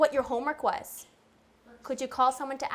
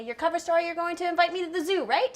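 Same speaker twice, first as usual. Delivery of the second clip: prompting the script; 5 semitones higher than usual. Shown as a demonstration. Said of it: "you're gonna say".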